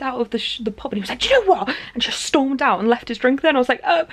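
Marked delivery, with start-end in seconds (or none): 1.2-1.8 high, loud, acted outburst; mock exasperation. Upset friend storms out of the pub, mock exasperation. 3.8-4.1 high, louder stammered ums; mock flustered. Speaker left behind as friend storms out, mock flustered.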